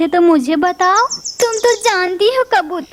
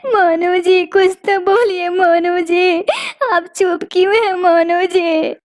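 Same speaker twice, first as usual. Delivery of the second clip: sobbing lament, pleading with her husband; a childless bird crying out to her husband. Acted. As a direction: weep and beg for an answer. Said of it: "रो रो कर सबसे कहती रहोगी".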